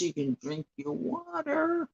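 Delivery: high playful echo before a laugh; playful high repeat. Acted. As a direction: lift it way up, teasing and cheerful.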